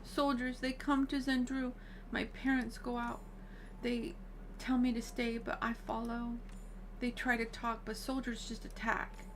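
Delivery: lightly voiced character haltingly telling a painful memory; hesitant young character recounting trauma. Alfie telling of soldiers attacking, lightly voiced halting account.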